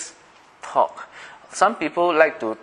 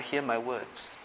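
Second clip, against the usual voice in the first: much softer, hushed plea; whisper-soft request to God; quiet prayer; 10 dB quieter, slower than usual. Shown as a demonstration. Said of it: "our quiet prayer".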